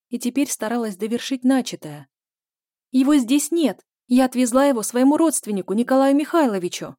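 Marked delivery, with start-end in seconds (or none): 2.9-6.9 much higher and louder insistent shout; loud insistence. A narrator's reading. Zhenya loudly insists the key is with a relative. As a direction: shout the lie so he believes it. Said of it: "выпалила Женя как можно громче".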